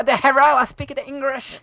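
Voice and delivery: put-on high-pitched caricature Asian accent; mock Asian accent. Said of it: "I can only do Asian".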